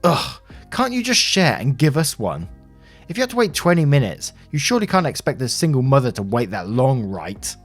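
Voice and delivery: huffy, put-upon mother voice; entitled, annoyed pleading; exasperated demand. Acted.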